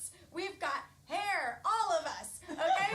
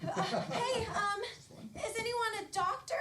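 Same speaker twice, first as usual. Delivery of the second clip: higher, anxious call for help; worried Barbie call; 6 semitones higher than usual. Pretend. Barbie calls out to the crowd for a doctor, worried. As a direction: call out for a doctor, flustered and laughing.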